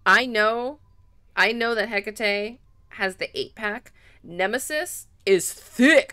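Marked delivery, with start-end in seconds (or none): 4.2-6.1 drawn-out admiring gush. Real, not acted. Gushing over character design.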